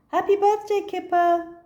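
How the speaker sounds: high, loud birthday cheer; shouting happy birthday; cheerful greeting. Acted. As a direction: friends at the door. Friends greet at the door.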